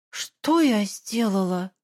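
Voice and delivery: slow, bewildered repeat; dazed echo. Acted. Daughter echoing her mother, slow and lost. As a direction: ask it numbly.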